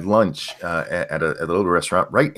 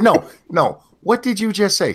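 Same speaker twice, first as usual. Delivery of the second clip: higher-pitched mock disbelief; retold incredulous questioning; 10 semitones higher than usual. Grandpa pressing granddaughter about a word, mock shock. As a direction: press the child, lightly scandalised.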